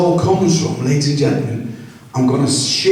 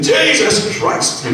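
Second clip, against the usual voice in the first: drawn-out high shocked gasp of the words; 8 semitones higher, much slower than usual. Retold or imitated. Comic to the crowd about the exam, slow high shock. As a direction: stretch it out in horror.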